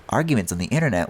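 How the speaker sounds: baffled echo of arguments on the internet; incredulous echo. Shown as a demonstration. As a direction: repeat it back in mock disbelief. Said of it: "What on earth are you talking about?".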